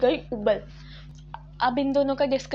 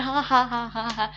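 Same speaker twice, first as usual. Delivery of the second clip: a short, rowdy ha-ha-ha cackle; mocking laugh. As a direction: imitate the friends cackling like hooligans. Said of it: "बहुत रावड़ों की तरह हंस रहे हैं".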